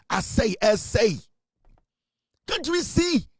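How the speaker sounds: high-pitched, pleading rhetorical questions; exasperated appeal. Real, not acted. Speaker appeals to the party over self-inflicted harm, exasperated.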